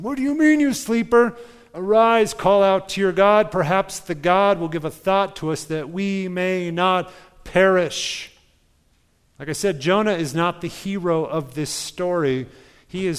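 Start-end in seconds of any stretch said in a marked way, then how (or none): 0.0-8.3 loud, high frantic wake-up call; a ship captain yelling at a sleeper; urgent captain's shout. Acted. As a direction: shake him awake with your voice. Captain shaking sleeping Jonah awake.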